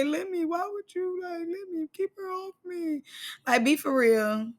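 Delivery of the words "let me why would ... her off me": high, soft, teary mock whimper; mock crying whimper. Scotty crying in the corner to Lex, soft teary mock whimper. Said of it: "go over there and cry in the corner".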